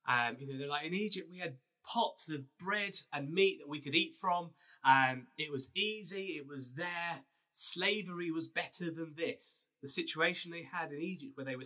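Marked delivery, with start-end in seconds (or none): 0.8-9.7 hammed-up whining crowd; moaning Israelites. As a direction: moan it like a nostalgic complainer. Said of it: "They grumbled. They moaned".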